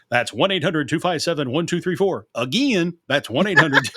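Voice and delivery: Southern twang on "Again" said as "agin"; Southern accent slipping through. Retold or imitated. Radio intern reading a phone number, Southern "agin" slipping in. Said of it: "It just sounded terrible".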